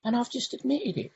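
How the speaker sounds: retold realisation. Speaker recalls first admitting the anger, mildly amazed. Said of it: "And I thought".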